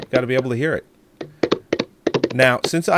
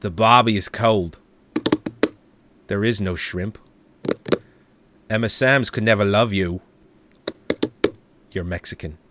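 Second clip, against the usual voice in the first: put-on Australian accent; 3 semitones lower than usual. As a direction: read the haiku like a deadpan Aussie. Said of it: "I'm gonna do this in Austra-, in an Australian accent".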